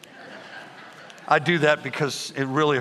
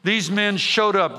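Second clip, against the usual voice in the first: higher, slow reading with build; slow dramatic reading; 4 semitones higher, slower than usual. Shown as a demonstration. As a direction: read it slowly for effect. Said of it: "you gotta read it the way".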